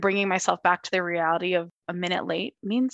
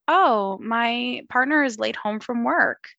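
mocking her anxious self; 5 semitones higher, slower than usual. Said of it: "You started with".

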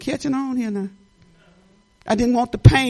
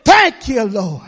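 higher, building loud prayer; praying aloud before the church; fervent prayer; 4 semitones higher, 3 dB louder than usual. Real, not acted. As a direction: pour it out to the Lord. Fervent prayer rising to praise.

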